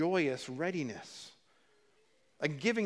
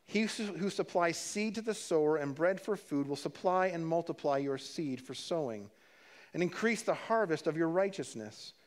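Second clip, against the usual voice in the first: steady, slightly raised reading voice; scripture reading. Acted. Pastor reading the passage to his congregation, steady and clear. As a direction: read the verses out to the church.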